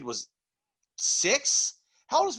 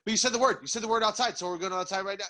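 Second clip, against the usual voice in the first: high, insistent pleading; excited dog; 5 semitones higher, faster than usual. Acted. Dog arguing with owner to go outside, excited. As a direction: protest like an impatient dog.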